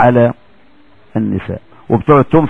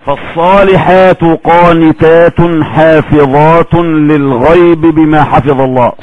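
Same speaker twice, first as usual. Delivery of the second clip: slow, drawn-out reciting, slightly raised; Quran recitation; slower than usual. Acted. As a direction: intone the verse slowly, word by word. (تلاوة بطيئة ممدودة)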